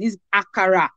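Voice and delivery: AKARA said firmly, syllable by syllable; stressed word. Shown as a demonstration. Mother insisting on the proper name, stressed word. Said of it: "I will even stress the word".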